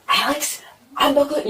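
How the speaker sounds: high, agitated mimicry of ex; getting worked up. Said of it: "starting to get worked up".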